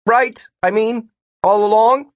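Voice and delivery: high, insistent question; stubborn quarrelling; pressing the point. A narrator's reading. Martin keeps pressing his point.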